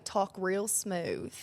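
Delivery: mom's slow syrupy Southern advice; Southern belle drawl. Retold or imitated. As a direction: drawl it out like her mother. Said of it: "my mom was a Southern belle".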